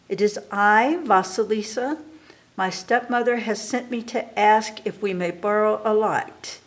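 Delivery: a hint of a respectful young girl; timid girl. Girl answers the witch.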